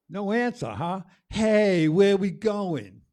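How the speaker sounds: high, loud shouted demand, slowing on the question. Acted. The voice shouting at the sun for an answer, loud and high. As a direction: yell up at the silent sun.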